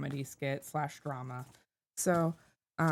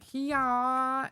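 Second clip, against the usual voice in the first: energetic shout; 6 semitones higher, 3 dB louder than usual. Acted. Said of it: "she's gonna be like".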